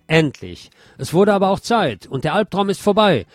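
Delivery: commuter's relieved cry, lightly acted; relieved outburst. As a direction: exclaim it like a fed-up passenger finally freed. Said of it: "waren einige der Kommentare".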